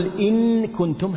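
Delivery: إن كنتم very slow, نون fully sounded and nasal before كنتم; faulty clear reading of إن كنتم; wrong izhar with ghunna. Shown as a demonstration. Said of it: "هذا إظهار بغنة".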